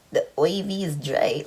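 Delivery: put-on puzzled echo of a Bajan accent, IV as "oy-vee". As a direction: repeat the Bajan pronunciation in confusion. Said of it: "say really well in a Bajan accent".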